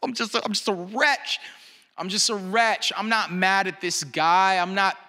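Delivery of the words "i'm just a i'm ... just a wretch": mildly choked confession of being a wretch; near tears. Retold or imitated. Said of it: "I almost started crying".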